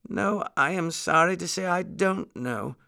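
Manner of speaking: high-pitched regretful lady muskrat. A narrator's reading. Muskrat lady unable to help the lion, regretful.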